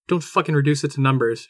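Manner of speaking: fast, clipped anger; angry. Acted. Wife snapping at husband who reduces it to numbers. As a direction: spit it out, stung and angry. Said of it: "angry now".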